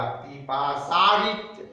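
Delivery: पिपासारित said very slowly; slow demonstration. Shown as a demonstration. Teacher shows students the sandhi word पिपासारित. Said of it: "तो आर हो गया".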